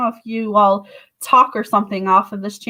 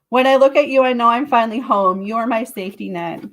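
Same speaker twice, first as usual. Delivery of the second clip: ordinary talk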